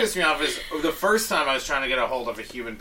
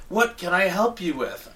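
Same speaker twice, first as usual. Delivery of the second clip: mock robot voice; 4 semitones higher than usual. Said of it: "then it's like".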